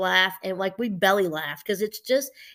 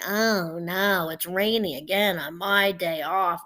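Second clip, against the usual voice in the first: slow, drawn-out mock whine; mock-whining, dragged-out words; whiny complainer; 2 semitones lower, slower than usual. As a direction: moan it out like a petty whiner. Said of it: "I'm talking about just the whiners".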